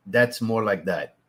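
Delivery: slow, flattened Cajun accent; flat Cajun accent. Shown as a demonstration. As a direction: let it drawl flat like South Louisiana Cajun. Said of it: "that's that accent right there".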